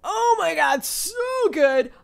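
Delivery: loud, high gushing; excited rave. Real, not acted. Raving about the Hannibal episode, loud and high. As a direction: burst out with excitement.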